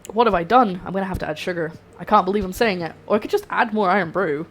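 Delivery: ordinary talk, nothing marked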